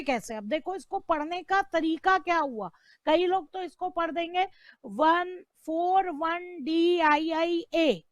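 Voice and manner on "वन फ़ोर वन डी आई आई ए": spelt out as वन फ़ोर वन डी आई आई ए, letter by letter, slowly; wrong way to read. Shown as a demonstration. Teacher showing students the wrong reading, slow and letter by letter. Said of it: "ऐसे नहीं पढ़ा जाएगा".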